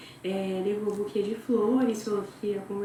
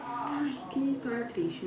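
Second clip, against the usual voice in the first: mock pity; 3 semitones higher, 4 dB quieter than usual. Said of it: "E é tipo assim".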